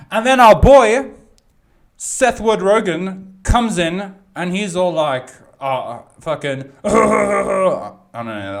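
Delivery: a botched, high, slowed-down celebrity voice; hammed-up impression that falls apart; failed Seth Rogen impression. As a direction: try the impression and let it collapse into a laugh. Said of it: "I'm not gonna do that again. That was horrible".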